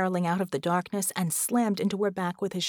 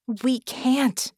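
high, louder urgent protest; hissed objection; 6 semitones higher, 5 dB louder than usual. A narrator's reading. Vicky refuses Red's retreat, urgent protest. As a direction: object with force. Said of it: "Vicky hissed".

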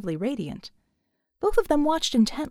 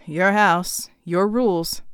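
a little angry; 3 semitones lower, 4 dB louder, slower than usual. Acted. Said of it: "a little angrier than he had intended".

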